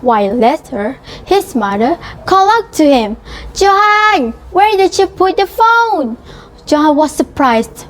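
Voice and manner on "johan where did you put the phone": calling out. Acted. Mother calling out to son.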